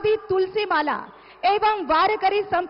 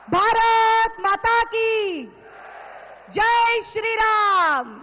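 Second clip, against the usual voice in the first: rally slogan call; much slower than usual. Real, not acted. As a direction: draw each word out for the crowd. Emcee leads crowd slogans. (खींचकर लगाया गया नारा)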